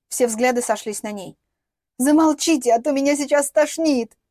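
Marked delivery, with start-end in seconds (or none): 2.0-4.2 drawn-out, louder, higher plea through gritted teeth; drawn out through clenched teeth. Acted. Nauseous Inna begs everyone to stop, through gritted teeth. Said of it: "протянула Инна со стиснутыми зубами".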